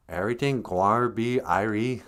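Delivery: lightly put-on Jamaican accent; a touch of Jamaican patois. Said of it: "Jamaican accent".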